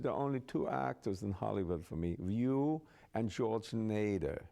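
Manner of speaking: lightly imitated German-accented queen; German accent, drawing out the final names. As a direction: mimic her German accent. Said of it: "she had a German accent".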